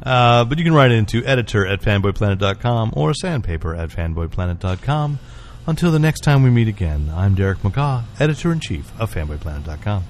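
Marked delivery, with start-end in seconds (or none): 5.7-10.0 smooth jazz voice. Pretend. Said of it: "Why are you doing the smooth jazz voice?".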